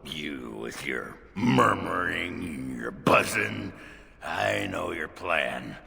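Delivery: paranoid. Acted. Paranoid talk to nobody.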